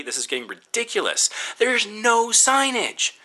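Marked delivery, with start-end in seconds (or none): 1.6-3.1 slow exasperated emphasis. Real, not acted. Frustration peaking.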